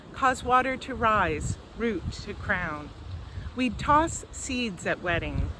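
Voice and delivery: measured poetry recital with pauses between lines; poetry reading. Acted. Poet reads a poem to a virtual audience, measured poetry reading. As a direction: read it as verse, letting each line land.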